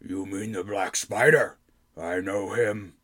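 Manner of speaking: slow, lightly voiced goblin king; a hint of a sly goblin king.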